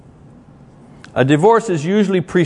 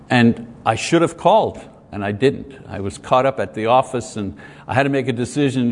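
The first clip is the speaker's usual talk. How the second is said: lower, humble apology; sincere husband apologizing; 5 semitones lower than usual. Acted. Husband apologizes to wife for coming late, low and humble. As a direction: own the hurt, gently and lower. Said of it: "instead of ... saying".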